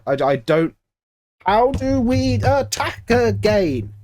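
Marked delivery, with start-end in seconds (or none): 1.5-3.9 exasperated. Real, not acted. Despairing at team's attack.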